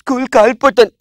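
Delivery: hammed-up little-boy whine; crying child. Tearful boy telling uncle why, mock whining. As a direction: whimper it like a tearful kid. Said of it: "ఎందుకు ఏడుస్తున్నావు నువ్వు".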